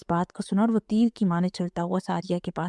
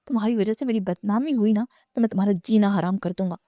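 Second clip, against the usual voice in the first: angry threat; faster than usual. Acted. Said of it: "وہ غصے سے بولا".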